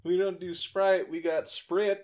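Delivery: slow Southern drawl; southern accent. Pretend. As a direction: lean into a country twang. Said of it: "I didn't mean to do a southern accent".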